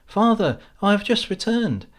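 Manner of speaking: loud, high call toward the house; hopeful homecoming shout. A narrator's reading. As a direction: call out to Father from the doorway. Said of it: "he calls out".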